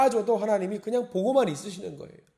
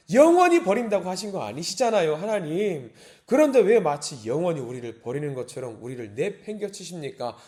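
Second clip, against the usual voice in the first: raised cry that settles down; acted protest. Psalmist asks God why he casts his people off, protesting. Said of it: "지금 이렇게 기도하고 있어요".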